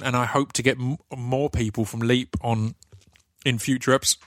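fighting back hiccups; hiccuping. Real, not acted. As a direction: hiccups breaking into words. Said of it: "oh God, I'm hiccuping and burping today".

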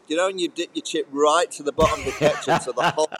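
words broken by laughter; laughing at the image. Real, not acted. Laughs while describing the dipping.

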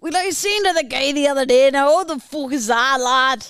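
put-on copycat Irish accent; parroted Irish accent. Parroting the challenger's tale, imitated Irish accent. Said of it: "the Irish and the Scottish".

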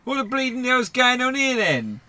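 high, loud rough challenge; barging in. Acted. The intruder catching them at chess, loud and rough. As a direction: burst in shouting and demanding answers.

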